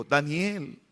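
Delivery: softly called name, a touch of sorrow; mildly mournful acted call; sad voice. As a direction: call out sadly but softly. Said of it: "con voz triste y le dijo".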